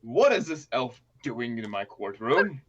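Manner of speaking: a hint of a slow, stern judge; slow disapproving judge, lightly played; lightly voiced stern judge. Judge scorning the elf in his courtroom, slow and stern. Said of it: "and he says".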